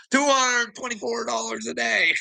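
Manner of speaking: high, disbelieving repeat of the sum; incredulous. Real, not acted. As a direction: say it like you can't believe it.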